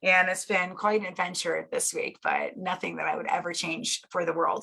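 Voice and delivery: strained, fading voice; losing her voice. Real, not acted. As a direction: speak through a worn-out voice. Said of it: "I'm losing my voice".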